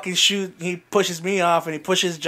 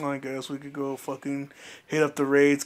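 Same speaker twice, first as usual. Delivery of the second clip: mildly dejected, lower and softer; retold sadness; 3 semitones lower, 5 dB quieter than usual. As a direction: imitate a friend giving in, a bit sad. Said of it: "he got real fucking sad".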